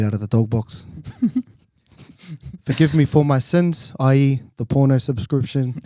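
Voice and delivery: mate blessing the podcast in a tongue-in-cheek prayer; mock prayer. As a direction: lead the boys in a cheeky prayer.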